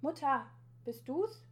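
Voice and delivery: high, drawn-out questioning call. A narrator's reading. Boy to mother through the letterbox slot, calling out. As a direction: call hopefully through a closed door. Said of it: "ruft durch den Briefkastenschlitz".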